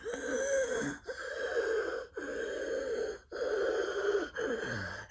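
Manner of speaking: long, quiet, high wheezing gasps; drawn-out gasps of a man trapped; stricken Santa's gasping. Acted. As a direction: wheeze helplessly, breath after breath. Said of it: "there he was, just like".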